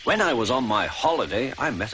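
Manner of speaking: suddenly thrilled by the idea; delighted. A narrator's reading. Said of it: "Then he laughed".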